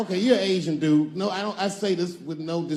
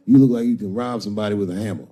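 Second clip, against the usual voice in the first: laughing jab; 10 semitones lower, 6 dB louder, faster than usual. Real, not acted. Crowd work with Brooklyn guy.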